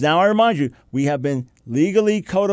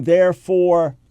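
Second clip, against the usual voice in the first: very slow, loud rallying cry; rallying call; 7 dB louder, much slower than usual. Real, not acted. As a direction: call the troops forward, drawn out.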